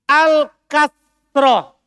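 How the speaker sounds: "Al-kasroh" loud, high and very slow, full -roh. Shown as a demonstration. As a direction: stretch "Al-kasroh" right through the last vowel. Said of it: "Pakai ta kan". (ucapkan "Al-kasroh" keras, pelan, akhiran -roh jelas)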